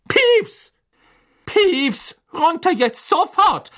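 loud, high angry bark; barked command. A narrator's reading. Professor yells at the poltergeist to come down, barking angrily. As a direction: bellow the order up at the culprit. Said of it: "bellte Professor McGonagall".

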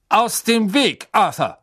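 high, slow, commanding bark; harsh authority, words drawn out; cold, imperious order. A narrator's reading. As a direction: order him aside coldly. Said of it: "herrschte ihn eine kalte Stimme an".

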